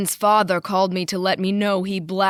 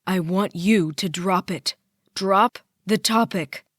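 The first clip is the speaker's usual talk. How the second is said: angry ranting; 3 semitones higher, 6 dB louder than usual. A narrator's reading. Daughter ranting at her father before he hangs up. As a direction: hurl every line at him.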